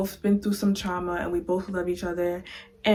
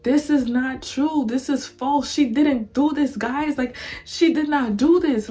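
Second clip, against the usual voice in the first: higher, insistent mock protest; Liz protesting; 5 semitones higher, 3 dB louder than usual. Liz insists to the court her friend is innocent, rising protest. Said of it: "And Liz is like".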